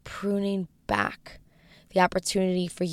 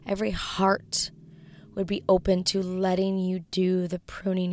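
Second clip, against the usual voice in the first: praying. Acted. Closes episode in prayer.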